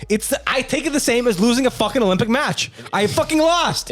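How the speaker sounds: high-pitched, hammed-up outrage; mock furious. Defending game rage as Olympic grief, mock fury. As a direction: rant it like a wounded sore loser. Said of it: "And I'm furious".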